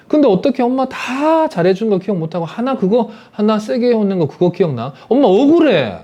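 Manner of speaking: a hurt mom protesting her case; defensive mother. Acted. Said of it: "그럼 엄마는 뭐라 그러냐?". (억울해하며 목소리를 높이는 엄마)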